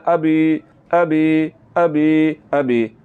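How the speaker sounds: "अभी" opening on a short "a"; quick short hamza. Shown as a demonstration. Teacher corrects the mistake, short first vowel in अभी. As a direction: keep the start of "अभी" brief. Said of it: "बल्कि पढ़ना है".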